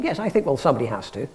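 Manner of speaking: put-on proper English accent; reply in your best English accent; carefully English, lightly hammed-up. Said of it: "in my best English accent".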